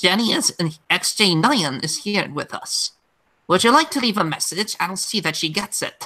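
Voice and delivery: demonic, possessed voice. Imagining the character Jenny voiced by Mercedes McCambridge: her possessed Exorcist voice. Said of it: "possessed voice from The Exorcist. she would have been like".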